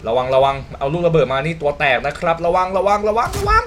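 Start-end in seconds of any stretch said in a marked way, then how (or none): 2.5-3.6 rising higher with each repeat; urgent warning climbing to a squeal; mounting alarm. Real, not acted. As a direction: build the panic upward in pitch. Warning as the danger closes in.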